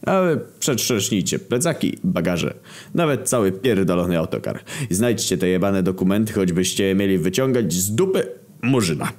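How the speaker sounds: emphatic orders starting high-pitched; impatient commanding; bossy order. Acted. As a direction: send the underlings off to search. President orders the others to search.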